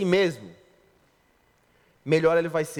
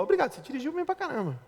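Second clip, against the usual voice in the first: higher, softer, fast sweet thanks; gushing praise; 7 semitones higher, 6 dB quieter, faster than usual. Pretend. Wife thanking husband for driving home, higher, soft and quick. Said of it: "que ele fala".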